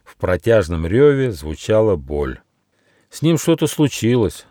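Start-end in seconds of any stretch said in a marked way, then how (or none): 3.1-4.5 higher, mildly worried; concerned. Acted. Gnome hears the tiger roar in pain, concerned. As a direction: voice a touch of alarm, pitched up. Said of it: "озабоченно сказал Нюфа".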